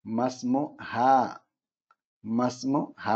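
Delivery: മസ്മുഹ with the മാ drawn out long; teacher showing the long vowel; long maa. Shown as a demonstration. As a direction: stretch the മാ in മസ്മുഹ. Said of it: "മാ യ്ക്ക് നീട്ടുണ്ട്".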